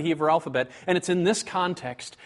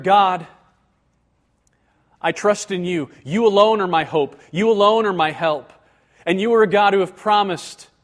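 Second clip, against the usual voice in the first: louder ringing declaration of trust; declared trust; 6 dB louder than usual. Shown as a demonstration. Preacher voicing assurance, ringing and louder. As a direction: proclaim trust boldly to God.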